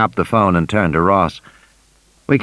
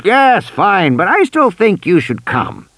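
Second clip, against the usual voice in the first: distracted; 9 semitones higher, slower than usual. A narrator's reading. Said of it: "not really listening".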